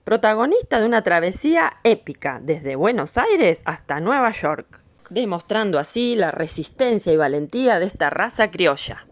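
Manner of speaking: measured, lively voice-over with punched key words; storyteller's voice-over; documentary narration. A narrator's reading. Recorded narration over music.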